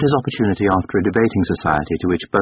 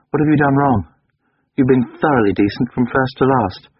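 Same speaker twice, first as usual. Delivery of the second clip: put-on higher, tense young man pleading to be left alone; Durham, pained; 5 semitones higher than usual. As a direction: push him away, strained and higher. Durham voiced by narrator.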